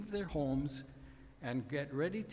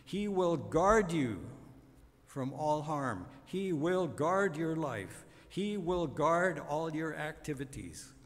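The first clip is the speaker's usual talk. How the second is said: repeated guard hit hard, steady beat; hammering stress on guard; 3 dB louder than usual. Acted. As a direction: hammer home the word guard. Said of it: "he hammers home his theme".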